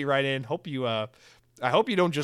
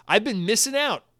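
higher, louder mock British; British accent; 8 semitones higher, 6 dB louder than usual. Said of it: "his Britishness".

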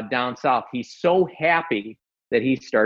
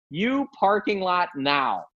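slow, drawn-out repeated command; higher, deliberate word-by-word order, not shouted; retold stern order; 5 semitones higher, slower than usual. Repeating the challenge for the listeners, slow retold command.

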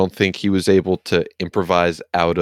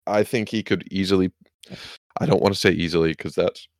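talking through hiccups; hiccuping mid-sentence; 3 dB quieter, faster than usual. Real, not acted. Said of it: "excuse me, I have the hiccups".

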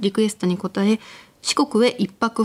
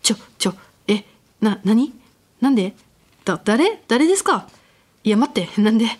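panicked rapid-fire babbling; flustered, stammering and fast; too much caffeine. Acted. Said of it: "半ばパニックになりながらも、おばさんを早口でまくし立てました".

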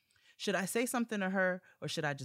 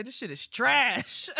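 slow, louder and higher mock-posh British voice; mock polite British; 8 semitones higher, 9 dB louder, slower than usual. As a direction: drag it out like a prim British judge. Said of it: "nicest way ... somebody say".

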